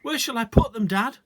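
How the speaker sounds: loud high call across clearing. A narrator's reading. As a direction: call to Dad from afar. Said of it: "I called out".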